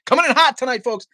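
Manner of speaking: high, loud furious outburst; angry shout. Real, not acted. Streamer opening his live rant to viewers, shouting angrily. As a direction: blast it out, fired up and pissed. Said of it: "but I'm pissed".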